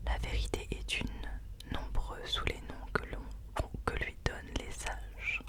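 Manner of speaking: reading a passage in a whisper. Real, not acted. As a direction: read the passage aloud, whispered. Reads book passage aloud.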